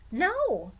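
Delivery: high, loud protesting no; a boy's sudden loud no; boy crying out. Acted. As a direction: blurt it out like a desperate boy. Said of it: "the boy cried".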